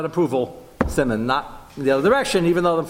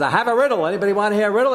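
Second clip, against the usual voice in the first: higher, louder playful offer; Shimshon voiced; 8 semitones higher, 4 dB louder, much faster than usual. Shimshon announcing a riddle to wedding guests, lightly voiced. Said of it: "So he says".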